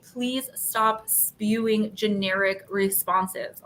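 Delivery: each word spaced out slowly and pointedly; slow deliberate plea. Retold or imitated. Fed-up customer to Amazon agent, slow and pointed. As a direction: spell it out slowly to the chat agent. Quoting herself to customer service.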